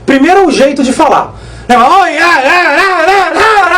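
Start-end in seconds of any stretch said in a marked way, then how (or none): 1.8-3.8 higher, hesitant "ah, ah" stammer, lightly parodied; a light mock of his own halting way of talking; imitating own speech tic. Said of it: "esse é ele". (imitação leve do próprio jeito de falar, mais agudo)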